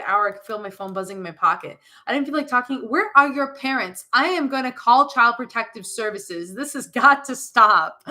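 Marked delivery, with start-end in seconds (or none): 2.9-8.0 emphatic, half-laughing scolding; exasperated outburst. Real, not acted. Reader scolding absent parents, exasperated. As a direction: lay down each word in disbelief.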